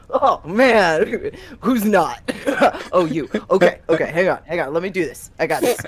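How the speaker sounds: put-on loud, laughing drunk reassurance; tipsy bravado. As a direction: swagger through it, a bit drunk. Drunk Hawthorne voiced loud.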